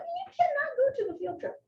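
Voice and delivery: a hint of a bossy adult; strict caregiver. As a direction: lay down the rule like a stiff staffer. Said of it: "And you're like".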